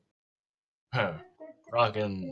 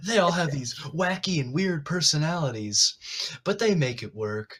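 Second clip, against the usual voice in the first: mock TV intro, opening higher; sitcom promo voice; 4 semitones higher than usual. Player riffing on the cast's personalities, mock sitcom promo. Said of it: "like it's a sitcom or something".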